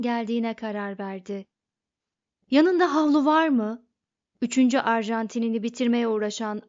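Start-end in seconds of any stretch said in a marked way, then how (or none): 2.5-3.9 higher, louder voiced Ford asking; Ford's voice. A narrator's reading. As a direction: put a distinct character voice on Ford's question. Ford asks Arthur in bar. (Ford'un sesiyle soru)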